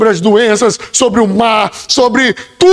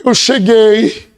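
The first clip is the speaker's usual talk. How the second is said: humble prayer; slower than usual. Pretend. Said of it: "Então chegue diante dele e fala".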